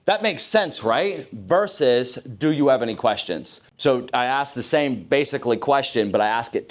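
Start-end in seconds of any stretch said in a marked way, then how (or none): 0.1-1.3 assumptive tag question. Shown as a demonstration. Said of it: "When do you say ... versus". 2.2-3.6 open question. Shown as a demonstration. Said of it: "When do you say ... versus".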